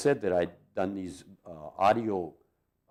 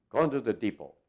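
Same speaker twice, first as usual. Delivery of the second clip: retold excitement; 5 dB louder than usual. Charlie answers Martin about where they're going, mock excitement. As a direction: imitate an eager friend announcing the outing. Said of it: "he was all excited".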